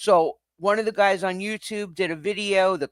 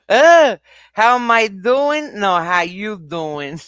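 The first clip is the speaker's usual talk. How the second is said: playful greeting; 5 semitones higher, 8 dB louder, slower than usual. Real, not acted. Mock greeting to chat.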